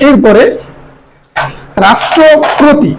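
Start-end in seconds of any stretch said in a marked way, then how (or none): 1.9-2.9 রাষ্ট্রপতি slow and higher; model pronunciation. Shown as a demonstration. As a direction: present রাষ্ট্রপতি carefully, ending "poti". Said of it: "আমরা উচ্চারণ করলাম কি". (রাষ্ট্রপতি ধীরে, স্পষ্ট উচ্চারণ)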